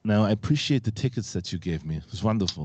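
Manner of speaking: put-on Arnold-style Austrian accent. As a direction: do an Arnold accent, picking a quarrel. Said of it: "like to hear Arnold and the Flirtenflaus".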